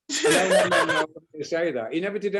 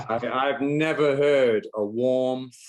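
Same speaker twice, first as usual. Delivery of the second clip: laughing whisper; 3 semitones lower, slower than usual. Real, not acted. Laughing while praising the song.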